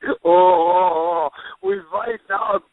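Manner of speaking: grin through it like a slow giant; giant's voice. Retold or imitated. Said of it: "all he could say".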